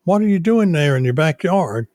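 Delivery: homeowner association lady. Retold or imitated. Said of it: "you change the voice when you talk".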